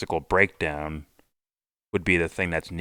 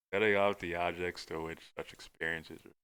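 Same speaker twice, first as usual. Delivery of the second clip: odd mad scientist reading voice; 9 dB quieter than usual. Shown as a demonstration. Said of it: "And I sound like a mad scientist".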